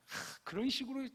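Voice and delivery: high-pitched mock-irritated nagging, building to loud orders; exasperated telling-off ending in a shouted command; annoyed scolding. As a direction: huff and scold in exaggerated annoyance. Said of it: "막 짜증내면서 막".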